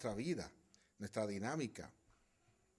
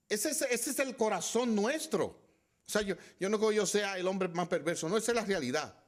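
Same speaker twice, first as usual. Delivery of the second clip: preaching at full force; 6 semitones higher, 6 dB louder than usual. Real, not acted. Emphatic preaching confession.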